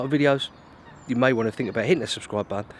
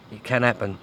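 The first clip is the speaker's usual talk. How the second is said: doubtful; 2 semitones lower than usual. Real, not acted. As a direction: let can drop in doubt. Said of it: "Doubt it, but".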